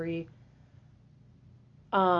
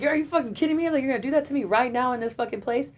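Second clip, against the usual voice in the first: higher, louder angry outburst; retold yell; 6 semitones higher, 4 dB louder than usual. Daughter confronts mom in the restaurant, indignant yell. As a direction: fire it back in outrage. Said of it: "I yelled at her".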